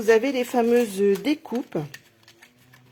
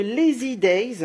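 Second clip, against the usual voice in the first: English name in a French accent, drawn out; 4 dB louder, slower than usual. Real, not acted. Demonstrator names the stamp set to viewers, French-accented English. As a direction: say it slowly with a real French accent. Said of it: "excusez-moi pour mon accent, euh, anglais".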